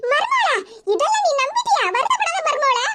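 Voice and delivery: put-on high, soothing older woman's voice; consoling mother-in-law. Mother-in-law consoling her crying daughter-in-law, soothing.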